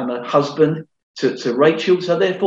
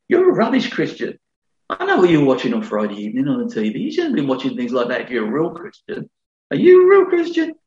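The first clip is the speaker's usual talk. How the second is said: undermining devil. Retold or imitated. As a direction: needle and shame like the accuser. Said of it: "he's undermining".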